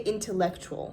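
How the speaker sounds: "intellectual" with a British-sounding T; British-style T. Shown as a demonstration. Vlogger showing words still said the British way, British T in "intellectual". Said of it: "it's not British anymore. Only sometimes. With a T?".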